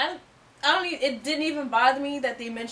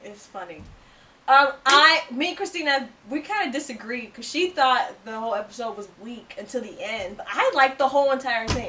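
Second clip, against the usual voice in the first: fake British accent; 3 semitones lower than usual. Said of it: "we're doing our accents".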